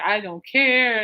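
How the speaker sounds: slow, drawn-out don't care; sarcastic. Retold or imitated. Alice brushing off the dangerous name, slow and sarcastic. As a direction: drag it out dismissively.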